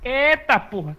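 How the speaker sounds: high, loud surprised yell; startled shout. Real, not acted. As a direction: shout in shock. Sudden enemy appears.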